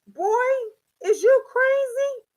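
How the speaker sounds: high, loud scold of her son. Retold or imitated. Mother scolding her son who smells of weed. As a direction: snap at him in disbelief. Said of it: "I be like".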